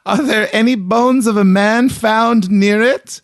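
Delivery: an anxious Maritime housewife asking questions; East Coast accent. Retold or imitated. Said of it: "She was quoted in the paper asking".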